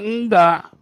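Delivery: high, loud firm command from God; a stern God, voiced high and loud; God speaking firmly. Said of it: "Tuhan bilang".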